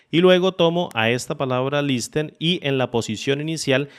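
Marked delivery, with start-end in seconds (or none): 1.8-2.3 "listen" read as spelled, t sounded; Spanish pronunciation. Shown as a demonstration. Using the example word in a formula, "listen" in Spanish pronunciation. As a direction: say "listen" as a Spanish speaker reads it, lis-ten. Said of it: "La voy a pronunciar como se pronunciaría en español".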